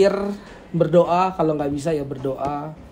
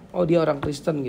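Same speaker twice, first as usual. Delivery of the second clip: simple, even-voiced realisation; approving recognition. Shown as a demonstration. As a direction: say it as a neutral, favourable discovery. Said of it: "Beda ya, nadanya beda ya". (pengakuan positif yang wajar)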